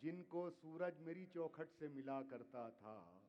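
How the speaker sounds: measured, declaiming poetry to audience; ghazal recitation. Acted. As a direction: recite each couplet with weight. Poet repeats couplets.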